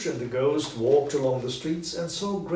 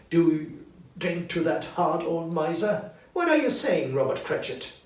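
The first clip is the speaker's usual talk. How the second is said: louder and higher indignant scolding; angry wife; 5 semitones higher, 5 dB louder than usual. A narrator's reading. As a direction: scold her husband for the toast. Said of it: "said Missus Cratchit angrily".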